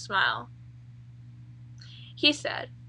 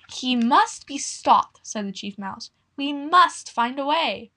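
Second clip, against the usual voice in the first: solemn chief mouse; 2 semitones higher, 4 dB louder, slower than usual. Acted.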